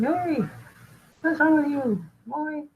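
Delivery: mildly indignant lion telling off a cub; mad lion. Acted. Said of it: "so he's mad".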